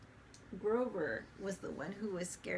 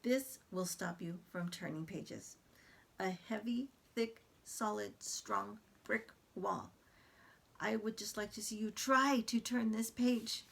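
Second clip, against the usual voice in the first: Grover voice. Acted. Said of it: "Grover is very exaggerated".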